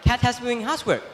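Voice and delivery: quick, soft needling stranger; fast hushed sly stranger; scheming stranger. Acted. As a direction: goad him in a hurry. Stranger stirs up Dog.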